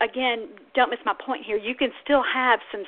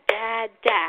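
"da, da" with a beat on each part; clapped syllables. Shown as a demonstration. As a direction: clap out "da, da" in two. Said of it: "you clap on both parts of that".

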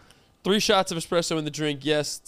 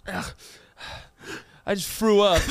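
put-on childish whine. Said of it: "had the nerve to go".

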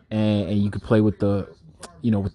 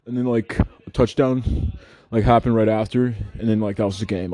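mock player interview; 2 semitones higher than usual. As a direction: lightly send up a post-game interview. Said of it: "what the fuck can you say after that".

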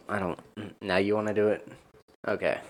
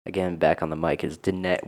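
low register all the way through; deep voice; 3 semitones lower than usual. Real, not acted. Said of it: "Why is my voice so deep?".

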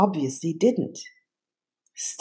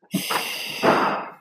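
relieved sigh. A narrator's reading. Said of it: "sighed with relief".

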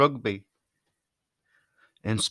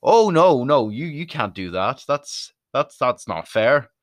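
whining Welsh fan; 4 semitones higher, 4 dB louder, slower than usual. Retold or imitated. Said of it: "you try the exact same".

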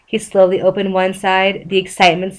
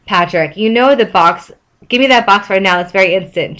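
captain voice. Acted. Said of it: "in his best captain voice".

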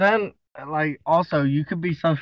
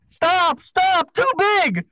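falsetto "stop, stop"; high mock yell; 14 semitones higher, much slower than usual. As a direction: squeal it like a woman yelling. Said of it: "when she starts yelling".

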